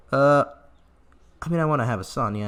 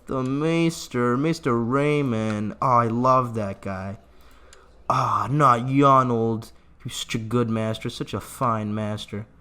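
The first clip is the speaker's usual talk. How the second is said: mock grief; slower than usual. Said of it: "I'm gonna keep doing my bit".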